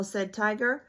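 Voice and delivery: ordinary delivery, nothing marked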